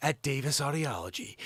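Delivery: smooth, flowing delivery. Showing someone how to say the name less jumpily, smooth flowing delivery. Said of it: "like let it flow?".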